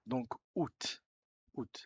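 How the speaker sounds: "août" said as "ou", the A not sounded; model pronunciation. Shown as a demonstration. Teacher showing the A in "août" is silent, said "ou". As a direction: give "août" as a plain "ou". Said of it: "No se pronuncia".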